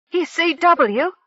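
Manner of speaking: high, slow, stunned question; gaping surprise. A narrator's reading. Zonzelo stunned by Kef's secret, asking high and slow. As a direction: ask it agape with disbelief. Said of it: "Zonzelo asked, gaping".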